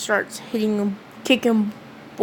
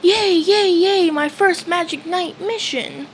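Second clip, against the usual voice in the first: excited scream; 7 semitones higher than usual. Retold or imitated. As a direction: squeal it out like a thrilled kid. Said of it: "Asta screaming".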